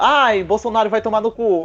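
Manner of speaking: high, put-on old pull-string talking doll voice. Retelling what a talking doll says when pressed: imitating a talking doll. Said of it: "aquelas bonecas que você aperta no peito e ela fala".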